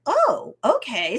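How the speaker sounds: lightly voiced coach, pitch jumps up on oh; a touch of surprised acceptance; easy-going oh, okay, rising high; mock surprised okay. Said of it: "he's like".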